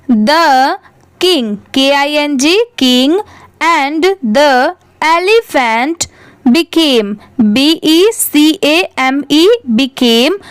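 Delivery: slow, measured read-aloud for learners; word-by-word reading. Shown as a demonstration. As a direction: spell and read each word slowly. (धीरे-धीरे, शब्द-दर-शब्द पढ़ना)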